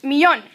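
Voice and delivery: "Millón" stressed on the last syllable, "mee-YON"; model pronunciation. Shown as a demonstration. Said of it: "Repitan, millón".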